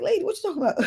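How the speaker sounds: incredulous. Retold or imitated. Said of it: "I'm looking at her like".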